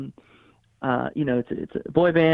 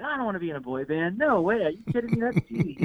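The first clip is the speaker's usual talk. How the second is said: mock indignant refusal; 5 semitones higher than usual. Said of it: "That was my thought".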